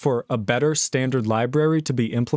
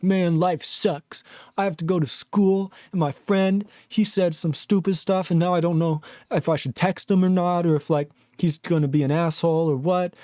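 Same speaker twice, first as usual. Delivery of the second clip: lightly voiced teen griping; complaining teenager; 2 semitones higher than usual. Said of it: "when you're fifteen, you're like".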